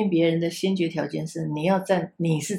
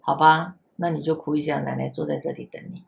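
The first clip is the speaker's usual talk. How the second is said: grandma comforting; 3 semitones lower than usual. Retold or imitated. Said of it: "我就说".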